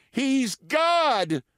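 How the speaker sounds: high, shrieking "He's God!"; screaming hen. Acted. Hen screaming in awe at the owl, high. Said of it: "screamed a Plymouth Rock hen".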